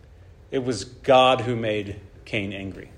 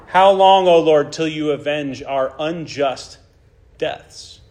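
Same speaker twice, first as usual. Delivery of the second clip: crying out; 2 semitones higher, 5 dB louder, slower than usual. Acted. Martyrs' blood crying out to God, loud anguished cry. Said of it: "it's crying out".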